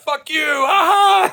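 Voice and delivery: high, loud mocking jeer with a laugh; taunting laugh. Other racers running out the door, high loud gloating jeer. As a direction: gloat as you run out.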